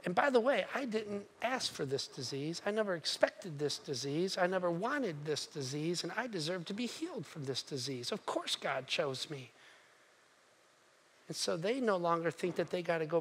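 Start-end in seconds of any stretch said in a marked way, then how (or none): 0.0-9.5 softer, self-pitying and smug; quietly convinced you deserve it; entitled grumbling. Acted. The healed men claim they deserved healing, softer and smug. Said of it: "They're like".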